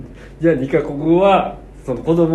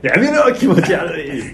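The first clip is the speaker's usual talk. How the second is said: retold angry shout; 3 semitones higher, slower than usual. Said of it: "上野で喧嘩したもんな".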